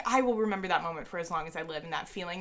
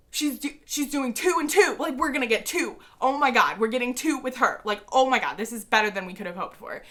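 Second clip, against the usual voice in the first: higher, louder, giddy rush; excited fangirling; 4 semitones higher, 5 dB louder than usual. Retold or imitated. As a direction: gush like a fan who can't believe it. Fans freaking out together.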